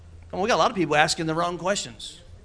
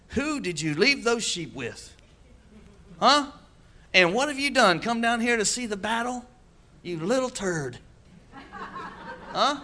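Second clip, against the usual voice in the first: scolding brothers; 5 semitones higher, slower than usual. Retold or imitated.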